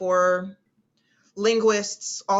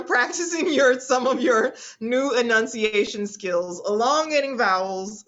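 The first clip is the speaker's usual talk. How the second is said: laughing; 4 semitones higher, 5 dB louder than usual. Real, not acted. Laughing while giving poll options.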